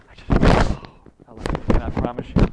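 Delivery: half-whispered then loud burst of feeling; moved. Real, not acted. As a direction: let the emotion break through. Overwhelmed by grandmother's letters.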